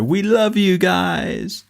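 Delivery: long, high stage yell; rock band sign-off. Acted. Host imitates a rock band finishing a gig, high drawn-out cry. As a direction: draw it out high, like closing a gig. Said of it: "like rock bands, when they're on stage".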